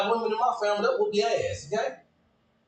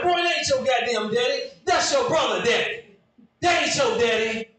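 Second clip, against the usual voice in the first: 1 mama retorting; 5 semitones higher than usual. Retold or imitated.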